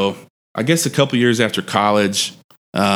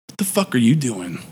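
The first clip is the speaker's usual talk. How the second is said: understated mock menace, not raised in volume; scowling challenge; 4 dB quieter than usual. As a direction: imitate a scowling man confronting someone. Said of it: "with a scowl on his face".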